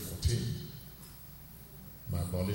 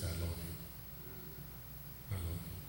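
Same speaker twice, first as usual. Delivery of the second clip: gentle retold words; 11 dB quieter, faster than usual. Retelling the pastor's words.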